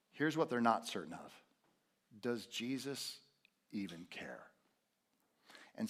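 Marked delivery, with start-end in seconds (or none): 2.2-4.4 hushed whispered question; soft whispered doubt. Real, not acted.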